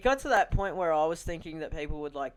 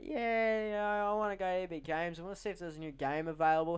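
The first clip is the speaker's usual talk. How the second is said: yabbering; 2 semitones higher than usual. Retold or imitated. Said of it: "here's me yabbering my head off".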